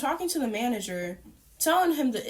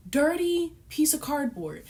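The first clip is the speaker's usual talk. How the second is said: disgusted repeat; 5 semitones higher than usual. Real, not acted. Telling viewers about cardboard in her potatoes, disgusted. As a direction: say it again like you can't believe it.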